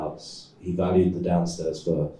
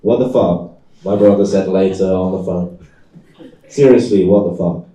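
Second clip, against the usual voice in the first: brother's outrage; 7 dB louder than usual. Acted. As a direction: blow up in disbelief at him. Brother yells on the phone.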